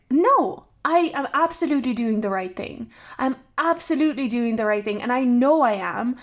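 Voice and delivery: firm retold protest, sharp No then steady; firm insistence. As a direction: stand your ground, insisting. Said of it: "stood very firm".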